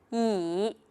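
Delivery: 椅 dipping low, drawn out; third tone. Shown as a demonstration. Teacher showing one syllable to learners, 椅 in a low dipping third tone. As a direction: let 椅 sink low and linger. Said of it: "third tone plus neutral tone".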